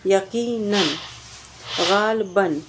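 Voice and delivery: یقیناً and غالباً sounded with a clear final n; یقیناً ending in an audible n; tanween demo. Shown as a demonstration. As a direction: press the n sound at the end of غالباً. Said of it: "آپ کو بار بار کس کی آواز آ رہی ہے".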